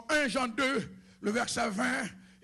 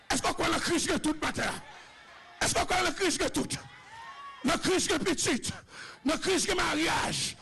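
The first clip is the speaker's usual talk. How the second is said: raised, ringing sermon voice calling out to the church; full-force preaching; 2 semitones higher than usual. Acted. Preacher calling out to the congregation, raised and ringing.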